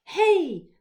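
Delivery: sharp, high shout at a bully; loud, high challenge. A narrator's reading. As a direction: call out loudly to stop someone. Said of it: "I shouted at Charlie".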